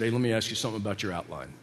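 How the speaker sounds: low, quick, softly put-on Brooklyn; Brooklyn accent. Professor questioning a student's outline, light Brooklyn accent. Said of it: "He's got this Brooklyn accent".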